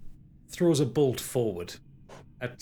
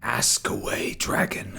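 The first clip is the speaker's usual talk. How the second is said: ghostly villain; slower than usual. Acted. Game master voices Derethor.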